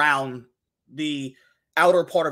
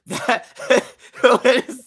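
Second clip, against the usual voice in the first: laughing; 7 semitones higher, 7 dB louder, much slower than usual. Real, not acted. Laughing at a picture.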